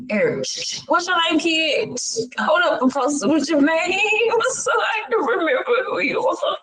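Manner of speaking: imitated tryout coach. Acting out coach calling tryout kids.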